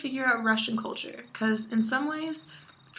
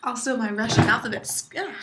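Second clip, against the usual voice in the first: banging the desk; 5 dB louder, faster than usual. Real, not acted. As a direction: voice jolted by a desk bump. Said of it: "Sorry, I hit my desk".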